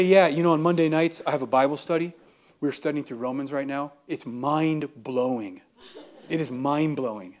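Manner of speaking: mean every word of it; telling a coworker about Bible study with sincere, lightly laughing delight; sincere enthusiasm. Shown as a demonstration. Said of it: "I say it like that with that sincerity".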